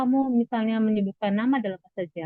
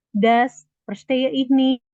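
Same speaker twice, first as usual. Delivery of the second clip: slow model phrase; 3 semitones higher, 3 dB louder, much slower than usual. Shown as a demonstration.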